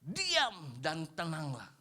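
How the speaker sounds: slow, deliberate. Shown as a demonstration. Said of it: "quoting the verse, slowed".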